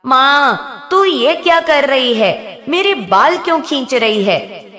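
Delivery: a demon crying out in pain. Acted. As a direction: yelp it out in pain as the hair is pulled. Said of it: "राक्षस दर्द से करा उठा".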